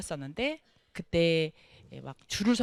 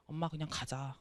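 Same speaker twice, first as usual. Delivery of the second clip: tearful son; 4 semitones lower, 9 dB quieter than usual. Retold or imitated. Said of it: "눈물을 글썽글썽글썽글썽 하면서".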